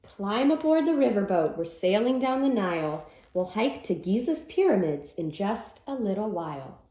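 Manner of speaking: lively storybook read-aloud; reading to children. Acted. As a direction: read it like a cheerful picture-book chant. Reads picture book aloud.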